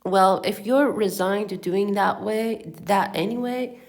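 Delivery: low-pitched read-aloud storytelling; story narration. A narrator's reading. Reading a comic novel to listeners, story narration.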